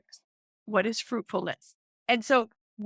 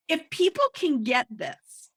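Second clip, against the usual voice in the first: higher-pitched eager excitement; real excitement; 5 semitones higher than usual. Real, not acted. Speaker wanting people to get this, excited. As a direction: press the point with excited urgency. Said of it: "I get so excited".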